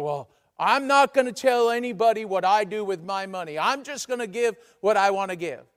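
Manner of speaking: hammed-up defiance at being asked; defiant objection. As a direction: play a member digging their heels in. Voicing a defiant reluctant giver.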